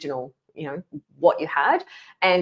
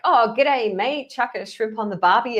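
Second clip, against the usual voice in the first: higher, hammed-up Australian greeting; over-the-top Australian; 5 semitones higher than usual. Chatbot overdoing Australian English, hammed-up Australian. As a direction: lay the Aussie slang on in a mock Australian voice. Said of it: "over the top Australian".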